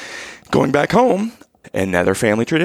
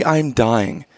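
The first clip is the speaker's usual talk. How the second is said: comic starving lament, pitched up; mock dying of hunger; 5 semitones higher than usual. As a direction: drag it out like you're wasting away.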